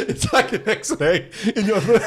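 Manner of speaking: put-on giggling through a Moroccan accent; laughing while staying in character. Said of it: "you are a Moroccan".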